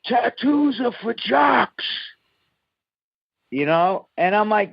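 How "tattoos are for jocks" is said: slow, higher mock heckle shouted from the crowd; raised, drawn-out jeer from the crowd; heckler's yell. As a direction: imitate a heckler jeering from the back. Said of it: "Somebody yells out".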